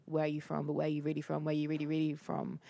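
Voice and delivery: mock probing, building insistence; typical question. Asking a Black Brit where she is really from, mock insistence. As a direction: imitate the pushy where-are-you-from asker. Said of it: "you always hear the typical".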